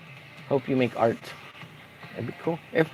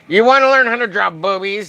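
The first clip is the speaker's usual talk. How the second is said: Corey Barton. Pretend. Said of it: "says Corey Barton".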